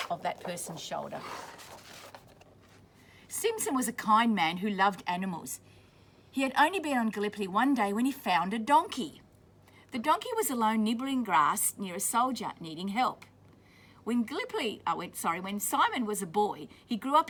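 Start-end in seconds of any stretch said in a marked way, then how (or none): 3.3-13.3 clear, steady storybook reading; reading to children. A narrator's reading. Teacher reading a war story to children, steady storybook voice. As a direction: read it out for the class. Reading picture book aloud to class.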